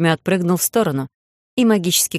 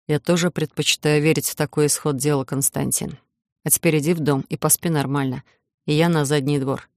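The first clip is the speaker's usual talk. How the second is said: calm, softer and lower; calmer; 3 semitones lower, 3 dB quieter than usual. Acted. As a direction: settle him down gently. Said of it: "спокойнее произнёс".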